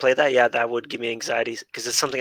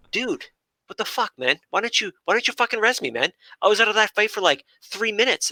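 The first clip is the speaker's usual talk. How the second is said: whiny DPS player; 7 semitones higher than usual. Retold or imitated. Imitating a dead DPS player griping at the healer, mock whine. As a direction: drag out the complaint like an annoyed teammate.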